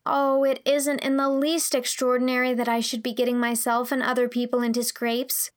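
put-on mildly mournful girl; understated girlish woe. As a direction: lament it with a touch of self-reproach. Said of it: "said Anne mournfully".

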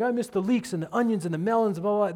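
quick, lightly whining complaint; mock grumbling. Israelites grumbling about the food they miss, mock grumbling. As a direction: grumble through a list, mockingly. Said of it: "They started complaining and grumbling".

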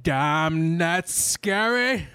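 a hint of a slow, dramatic movie-star line; mock Sidney Poitier. Imitating the intro line as a movie star, lightly voiced. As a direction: drawl it out slowly like an old film star. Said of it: "you went all Sidney Poitier".

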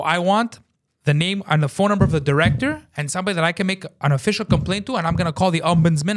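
worked-up retold demand; retold screaming. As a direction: threaten an official complaint. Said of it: "as I'm screaming".

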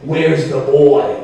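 slow, loud, low menace; creepy, drawn-out stalking call; Jack Nicholson. Acted. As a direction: draw it out like a horror-film madman. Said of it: "Jack Nicholson".

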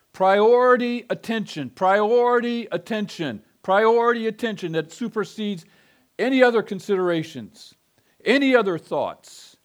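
full-force pulpit emphasis; loud flashing emphasis. Shown as a demonstration. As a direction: hammer each repeat. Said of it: "with loud, flashing emphasis".

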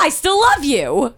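tender. Retold or imitated. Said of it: "you're like, you decide".

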